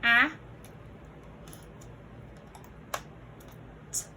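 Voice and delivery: "I" as a short a, then long gap, "T" as bare t; isolated letter sounds. Shown as a demonstration. Teacher sounding tiles for builders, "I" and "T" as lone phonemes. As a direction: sound out "I" as ah and "T" as a tiny click.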